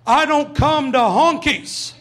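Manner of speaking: slow, drawn-out yell across the street; mock kid yelling. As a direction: yell it slowly at the new kid. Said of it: "he yells back to me".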